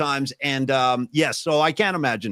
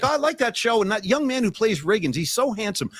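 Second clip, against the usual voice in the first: higher-pitched, admiring mom voice; lightly imitated admiring mom; 5 semitones higher than usual. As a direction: gush a little, imitating your mother. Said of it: "She's like".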